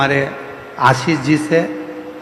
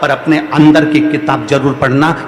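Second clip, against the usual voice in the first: forceful encouragement; 7 dB louder than usual. Acted. Climax of encouragement to audience.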